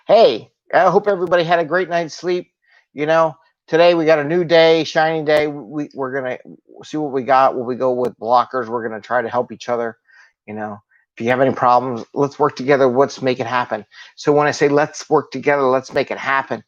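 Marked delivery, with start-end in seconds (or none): 0.1-13.9 rally the team with pep; peppy pep talk. Shown as a demonstration. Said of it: "You need to have some energy". 14.7-16.6 upbeat, encouraging team leader; rally the team cheerfully; happy encouragement. Shown as a demonstration. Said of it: "that's more happier than".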